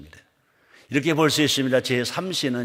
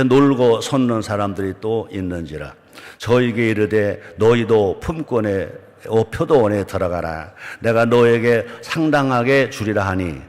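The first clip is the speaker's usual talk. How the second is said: steady, raised reading voice; scripture reading; 2 semitones lower, 4 dB louder than usual. Acted. Pastor reading the vineyard parable aloud to his congregation, steady and raised. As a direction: read the parable out to the hall, firm and even.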